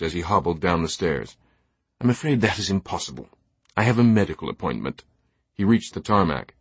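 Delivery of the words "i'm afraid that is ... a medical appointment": lightly voiced stuffy English gentleman; politely refuse, a touch put out; unamused jet owner. Teabing refuses the captain's request to stay aboard, unamused.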